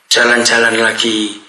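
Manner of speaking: usual speaking voice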